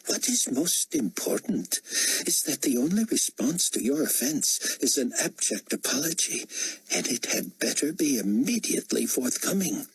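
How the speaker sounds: high, imperious rebuke; indignant potentate. Acted. Potentate rebuking a cabinet interrupter, high and indignant. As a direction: scold as an affronted ruler.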